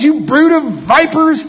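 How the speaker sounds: slow, high-pitched shouted denunciation; loud rebuke. Shown as a demonstration. Preacher as Jesus rebuking hypocrites, loud drawn-out shout. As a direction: hurl the insult at full voice. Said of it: "he said with a loud voice".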